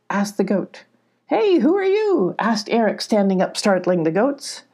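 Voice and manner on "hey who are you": high, sudden questioning call; startled challenge. Acted. Eric standing up to the goats, high challenge.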